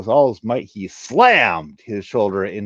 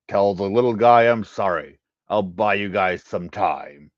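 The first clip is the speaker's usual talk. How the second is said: resigned farewell; 4 dB louder than usual. Acted. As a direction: say goodbye steadily. Harak's farewell sacrifice.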